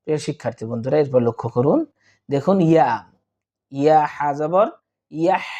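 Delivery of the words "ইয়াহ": ইয়াহ closing on a long breathy throat h; pure ha sound. Shown as a demonstration. Teacher models the letter ha for students, ইয়াহ with a pure breathed h. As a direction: let ইয়াহ end in a clear, airy pharyngeal h. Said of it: "একটু হায়ের উচ্চারণটা বিশুদ্ধভাবে করার চেষ্টা করব".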